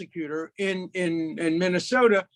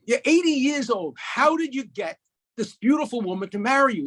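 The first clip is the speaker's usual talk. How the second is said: incredulous; 3 semitones higher than usual. Acted. Joke character questions friend incredulously.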